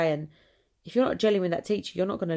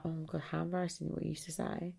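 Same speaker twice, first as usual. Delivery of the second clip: mortified grandchildren; 11 dB quieter than usual. Retold or imitated. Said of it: "our kids' kids would be like".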